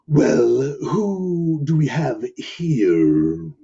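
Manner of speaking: slow, low predatory purr; low rumbling lion. Acted. Mountain lion greeting the lost puppy, low and rumbling. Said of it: "it spoke in a low, rumbling voice".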